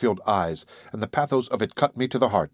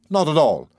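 valiant denial; 5 semitones higher, 4 dB louder than usual. Acted. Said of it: "I denied valiantly".

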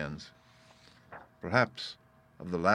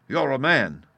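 raised, louder approval; admiring cry; 5 semitones higher, 7 dB louder, slower than usual. A narrator's reading. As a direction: salute him heartily. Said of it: "cries the coxswain".

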